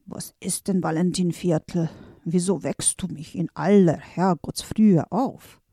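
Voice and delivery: a hint of a drowsy, grumbling wizard; groggy old maestro; sleepy old master. Old master woken too early, mildly grumbling.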